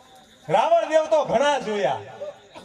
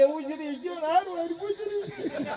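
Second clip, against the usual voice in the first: put-on old farmer's reply; 4 semitones higher, 8 dB quieter than usual. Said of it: "તા કે".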